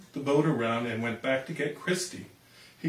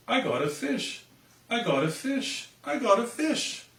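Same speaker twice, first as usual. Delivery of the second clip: put-on excited girl; 9 semitones higher than usual.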